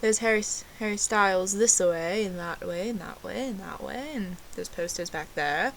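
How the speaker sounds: put-on amateur British accent, lively and chatty; fake British accent.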